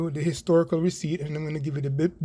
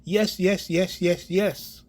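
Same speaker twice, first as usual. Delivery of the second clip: insistently affirmative; emphatic; 2 semitones higher, much slower than usual. Real, not acted. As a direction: drive home each repeated yes. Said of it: "the answer emphatically is a yes".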